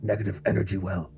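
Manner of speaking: hushed but heartfelt plea; very earnest. Acted. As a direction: urge them earnestly, keeping your volume down. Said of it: "Luca very earnestly says".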